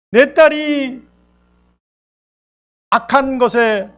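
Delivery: high, slow pleading cry to the Lord; a desperate mother crying after Jesus. Acted. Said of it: "소리를 지르면서".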